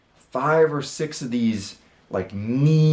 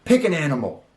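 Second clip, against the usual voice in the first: mock guard shout; 4 semitones higher than usual. Security guard yelling at the dreamer in the store, mock shout. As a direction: bark the hey at him like an angry guard. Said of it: "He's like".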